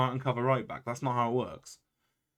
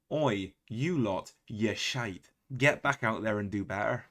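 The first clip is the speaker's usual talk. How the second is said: mock British team talk, the accent drifting between regions; slow "Oi" in a roaming British accent; badly held British accent berating players; wandering British accent; 2 semitones lower, slower than usual. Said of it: "that accent went through different time zones".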